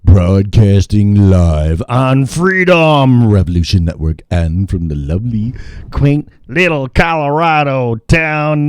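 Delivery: drawn-out broadcast opening; slow, projected announcer delivery; radio show intro. Pretend. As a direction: open the show like a radio host, lingering on words.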